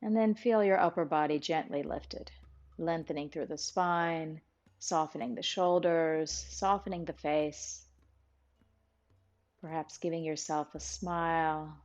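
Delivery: calm, even meditation guide with long pauses; guided meditation. Real, not acted. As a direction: ease listeners inward, phrase by phrase, leaving room to breathe.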